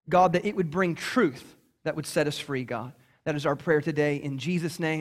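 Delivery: low, measured praying voice; prayer. Real, not acted. Pastor praying to the Lord before reading scripture, prayerful. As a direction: lead them in a low, unhurried prayer.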